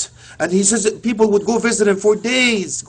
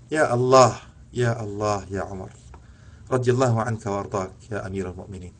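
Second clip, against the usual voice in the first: much softer, low and reverent; hushed invocation; 9 semitones lower, 9 dB quieter than usual. Real, not acted. Preacher moved, softly calling out to Umar. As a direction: let the voice sink to a hushed plea.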